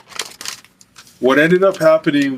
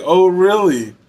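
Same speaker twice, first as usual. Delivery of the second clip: higher-pitched incredulous comeback; retold "oh really?", pitched up; mock challenge; 5 semitones higher, 3 dB louder, slower than usual. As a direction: throw it back as a challenge.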